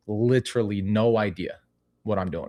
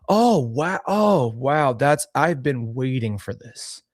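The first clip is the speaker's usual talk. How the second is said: played part; slower than usual. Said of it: "I played a part".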